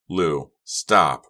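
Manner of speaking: loud urgent call. Acted. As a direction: shout to stop him. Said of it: "Red called".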